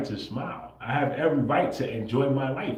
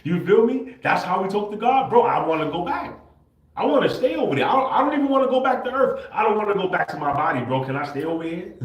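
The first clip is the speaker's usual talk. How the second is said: much higher and louder, rushing; spilling over with joy, far up in the voice; ecstatic; 8 semitones higher, 6 dB louder than usual. Real, not acted. Ecstatic memory of being with God.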